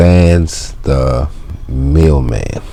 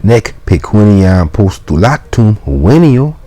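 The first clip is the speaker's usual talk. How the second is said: high, raised voice pleading his case; mailman protesting; 5 semitones higher than usual. Acted. Mailman protesting to the janitor. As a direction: insist you're no enemy.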